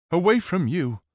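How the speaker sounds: high, loud angry retort; snapping back. A narrator's reading. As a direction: bite the words off at him. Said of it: "Prinny snaps back".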